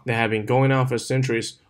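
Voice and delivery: "going on" run together, "had" kept light; connected model reading of "that had been going on"; linked reading. Shown as a demonstration. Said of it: "我们是一个连读".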